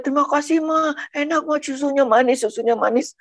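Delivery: a hint of a delighted little one thanking Mama; happy child. Child thanks Ma for the sweet milk, lightly imitated delight.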